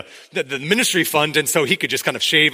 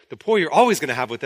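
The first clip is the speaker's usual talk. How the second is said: slightly sarcastic; faster than usual. Retold or imitated. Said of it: "he's being slightly sarcastic".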